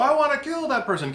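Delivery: high, loud outburst of a thought; acted angry exclamation; mock rage. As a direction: blurt it like a sudden murderous impulse. Acting out a negative thought.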